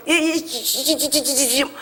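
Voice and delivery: imitating a stammer, laughing; stammering reply. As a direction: get stuck on the first syllable. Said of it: "그 정도를 말을 더듬어서".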